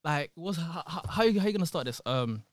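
lightly put-on American girl voice; a hint of mock American girl; American girl accent. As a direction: imitate an American girl's hesitant chatter. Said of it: "When girls speak American".

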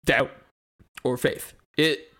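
theatrical skeptic's monologue with big rises; acted monologue. Auditioning friends, delivering a dramatic atheist monologue. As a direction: perform it like an audition speech. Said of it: "I forgot you were doing a monologue".

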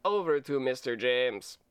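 hammed-up Russian video game villain; cheesy Russian bad-guy accent. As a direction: read it like an eighties-movie Russian bad guy. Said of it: "bad Russian".

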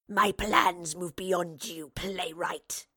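very slow, whispery creature voice; snarling wraith. A narrator's reading. Wraith threatens the playwright who blocks it, snarling. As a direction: drag it out in a sinister rasping whisper. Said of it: "the wraith snarled".

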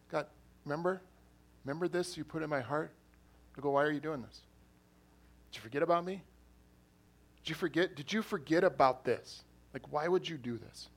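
angrily asking God if he forgot; angry complaint to God. Retold or imitated. Retells angry prayer to God.

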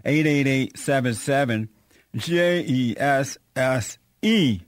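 talking through a mouthful; mouth full. Real, not acted. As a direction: read it out while chewing chips. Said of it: "I was eating some chips here".

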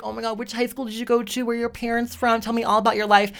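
put-on gushing girl. Mimicking the gushing, prying girl.

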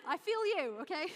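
fighting back tears; composure breaking. Real, not acted. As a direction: voice cracking, high and loud. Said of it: "I said I wouldn't cry".

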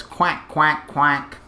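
quacking like a duck; a short clipped duck quack. Shown as a demonstration. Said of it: "a duck goes".

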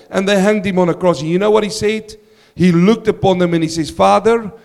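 rising to a loud, fervent preach. Acted. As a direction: preach it out full force. Preacher building up to the cross.

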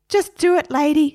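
high, impatient parrot; Harry. Acted. Parrot urging girl on, high impatient squawk. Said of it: "said Harry".

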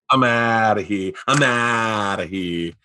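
slow, drawn-out buddy voice; imitating Sebastian. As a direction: lightly mimic a slow laid-back friend. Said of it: "or I start talking like him".

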